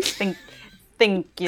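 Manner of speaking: mock period-drama British thank you; posh British accent. Repeating it for laughing friends, posh British accent. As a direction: play at a British aristocrat's accent. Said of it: "how they say it on The Crown".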